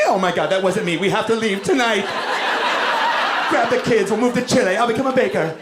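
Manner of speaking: high-pitched frantic pleading; hammed-up high, urgent voice; mock panic. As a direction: play a mortified woman planning to flee. Voicing ashamed girls fleeing in panic.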